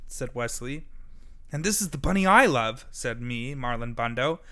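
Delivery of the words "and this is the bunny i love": higher, louder earnest plea; bunny voice. A narrator's reading. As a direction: declare it bravely. Marlon defends love.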